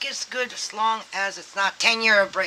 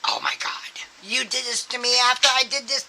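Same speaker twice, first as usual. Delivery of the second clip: whispered complaint, slightly higher; mock whispered grievance; 5 semitones higher, 6 dB louder than usual. Imitating a judgmental person muttering blame, whispered. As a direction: hiss the blame under your breath.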